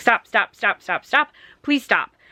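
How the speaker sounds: acted-out frantic, insistent, repeated desperate pleading cry. Retelling a story where a boy begs another boy to stop: imitating someone screaming. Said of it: "he keeps screaming and".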